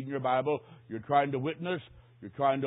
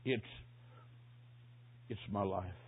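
very soft and low, struggling out word by word; hoarse whisper; 6 semitones lower, 14 dB quieter, slower than usual. Retold or imitated. Dying man answers the offer of help, imitated hoarse whisper. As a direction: imitate a weak, low, halting murmur. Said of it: "Then a hoarse whisper".

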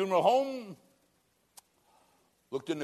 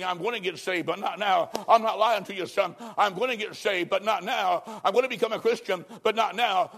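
mounting insistence; 4 semitones higher, 3 dB louder than usual. Retold or imitated. Replaying the dead man's repeated refusals.

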